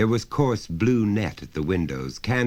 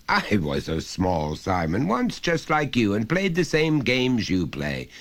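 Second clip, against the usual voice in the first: coaxing father; 4 semitones higher than usual. Acted. Father coaxing son to reveal his secret game, falsely friendly. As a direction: wheedle the secret out of him.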